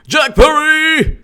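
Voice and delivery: high, slow name call. Real, not acted. Greeting a chatter by name, slow and high.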